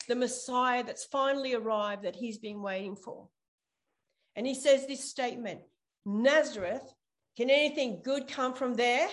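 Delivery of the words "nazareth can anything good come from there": louder, scornful question; bitter Nathanael scoffs at Philip. Retold or imitated. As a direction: spit out the name Nazareth with contempt. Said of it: "He's angry".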